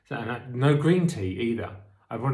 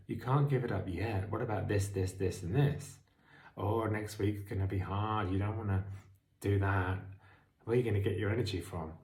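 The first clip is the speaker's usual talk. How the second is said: addict voice; 3 semitones lower, 6 dB quieter than usual. Retold or imitated. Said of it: "I know this addict voice".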